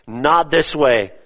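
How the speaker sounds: slow, emphatic stress on "Not". Shown as a demonstration. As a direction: lean firmly on "Not", stretching the phrase out. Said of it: "It's emphatic".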